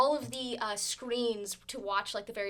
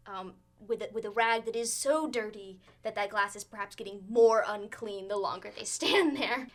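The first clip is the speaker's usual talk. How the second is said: lively scene-setting narration; game master narration. Acted. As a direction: paint the tavern scene for the players.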